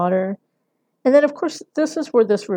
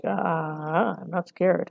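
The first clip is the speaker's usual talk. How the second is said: slow, drawn-out mock nervousness; cornered, nervous; 4 dB quieter, much slower than usual. Lecturer imitates Ben backed into a corner, mock nervous. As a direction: stretch it out as a feeble, cornered denial. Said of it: "he's kind of backed into a corner".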